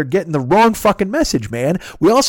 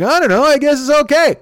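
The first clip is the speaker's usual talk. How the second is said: high, slightly louder mock Dwyer voice; Dwyer impression; 12 semitones higher, 4 dB louder than usual. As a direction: toss it off in a raised, mocking voice. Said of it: "He's like".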